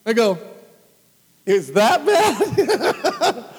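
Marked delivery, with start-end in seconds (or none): 1.4-3.6 slow, high, laughing through it; laughing question. Retold or imitated. Retelling his naive question to the hosts, laughing. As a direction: laugh while asking innocently.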